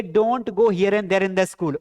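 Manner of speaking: very slow, word by word, for the class; slow model sentence. Shown as a demonstration. Teacher dictating an English sentence to students, very slowly. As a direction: spell each English word out slowly for learners. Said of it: "क्या बोलोगे?".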